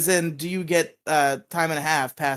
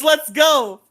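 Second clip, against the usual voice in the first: much higher, louder mock battle cry; shouted hype; 11 semitones higher, 5 dB louder than usual. Daring old folks to fight, hammed-up shout. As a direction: yell it like a fight is starting.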